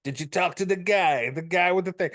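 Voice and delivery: hammed-up Italian-American gangster; mock mob consigliere. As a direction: talk like a movie mobster doing business. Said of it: "like, the mob consigliere".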